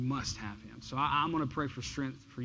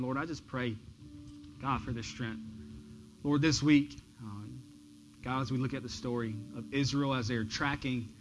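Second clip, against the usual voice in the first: earnest spoken prayer to God; pastoral prayer. Real, not acted. Pastor prays for congregation's strength, earnest prayer. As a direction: pray over the people, steady and sincere.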